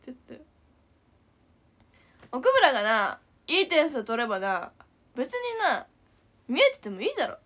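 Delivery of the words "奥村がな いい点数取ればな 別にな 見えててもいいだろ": louder, a touch of a scolding teacher; mock angry lecture. Teacher lecturing Okumura that good scores need no hiding. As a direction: lay into the pupil, rising at the end. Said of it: "みたいな".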